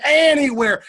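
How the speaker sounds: very high, loud yell. Retold or imitated. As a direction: imitate a rowdy class at full volume. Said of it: "getting louder and louder, and they're shouting".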